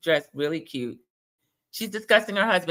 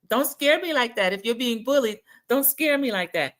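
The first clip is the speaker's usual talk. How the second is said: higher put-on quoting voice; imitated Kiki; 6 semitones higher than usual. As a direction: plead it high, imitating her. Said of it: "So she was like".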